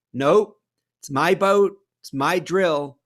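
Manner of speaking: loud stubborn no; stubborn refusal. Acted. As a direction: refuse flatly, won't budge.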